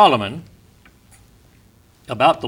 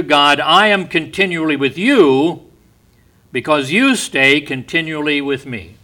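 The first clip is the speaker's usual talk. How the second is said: fervent; 2 semitones higher, 6 dB louder than usual. Acted. Preacher voicing the psalmist crying to God, fervent. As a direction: cry it out to God.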